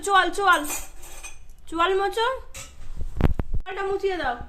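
put-on mother talking to her child, sing-song; coaxing mother to child. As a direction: coax the child gently through wiping up. Mother coaxing child through washing.

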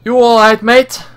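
high, lightly voiced Australian girl; lightly done Australian accent. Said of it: "I can't really hold a accent".

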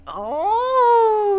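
drawn-out rising squeal; a long oh that climbs very high; long high wail. Real, not acted. Gamer reacting to spending his money, high drawn-out wail. Just spent money on gold gun.

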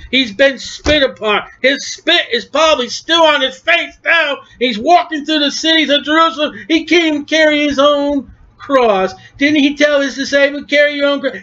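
worked-up preacher; impassioned preaching. Real, not acted. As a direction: press the point home to the congregation. Preacher builds in intensity.

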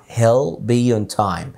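he'll be on time said very slowly, stressing hell; slow demo. Shown as a demonstration. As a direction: draw out he'll be on time for learners. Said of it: "زي ما قال في الفيديو". (نطق بطيء لـ he'll be on time)

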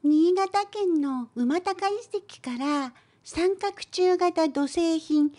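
ordinary talk, nothing marked

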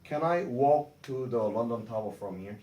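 very slow, carefully spaced "Can I walk to the London Tower from here?"; slow model sentence. Shown as a demonstration. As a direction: model the sentence slowly, each word clear. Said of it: "시작".

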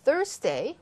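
Thursday lifted at the end; rising tune. Shown as a demonstration. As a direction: let Thursday go up. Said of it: "올리고".

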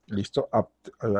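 ordinary delivery

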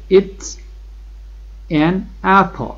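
an apple stretched out very slowly; slow model sentence. Shown as a demonstration. Teacher models the answer, slow and stretched. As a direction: draw out an apple for the class. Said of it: "شما میگید این یه سیبه".

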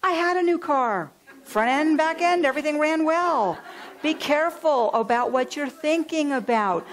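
proclaiming loud to the congregation; emphatic preaching. Real, not acted. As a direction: preach it out with force. Emphatic point in the sermon.

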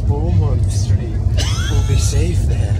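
mock Scottish, slow and dramatic; Scottish accent. Friend plays a Scottish hero in the script. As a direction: play it like a Scottish film hero. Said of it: "That was Scottish".

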